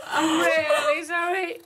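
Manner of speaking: slow, tearful half-shouted sorry; a genuinely flustered, crying apology; distressed apology. Real, not acted. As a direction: plead through real upset. Host apologising as snake poos.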